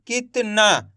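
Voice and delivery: कितना sounded out slowly, piece by piece; broken into syllables. Shown as a demonstration. Teacher sounding out the spelling for learners, syllable by syllable. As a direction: stretch कितना into its separate sounds. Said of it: "उसके बाद कित".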